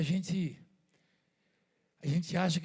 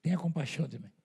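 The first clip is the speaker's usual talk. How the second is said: retold cry for mercy. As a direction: imitate a blind man calling out, fading into pleading. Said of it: "aí ele começou a gritar". (grito de súplica imitado, que vai baixando)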